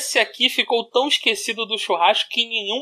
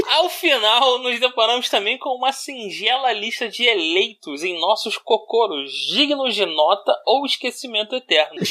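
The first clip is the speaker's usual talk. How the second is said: formal reading. Acted. Continues reading the text.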